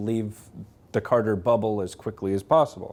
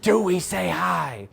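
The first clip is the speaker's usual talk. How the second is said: hushed, unsure murmur to a neighbour; a mock-anxious hushed question; nervous whispered aside; 3 semitones higher than usual. Guests whispering to each other, timid and unsure. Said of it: "looking at each other like".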